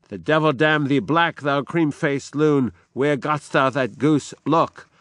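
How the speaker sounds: a touch of a furious king berating a servant; mock shout. Macbeth insulting the frightened servant, mild mock shout. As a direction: hurl insults at the pale servant. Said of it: "and he shouts at him".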